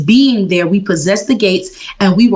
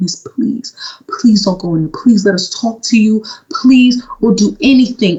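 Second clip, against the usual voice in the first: mock tearful, desperate begging. Retelling a tense encounter with a woman outside a building, retelling tearful begging. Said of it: "I was begging her".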